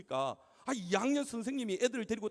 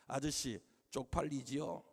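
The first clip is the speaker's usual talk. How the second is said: put-on fifth-grade boy; 6 semitones lower, 4 dB quieter, slower than usual. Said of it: "초등학교 오 학년짜리 남자애가요".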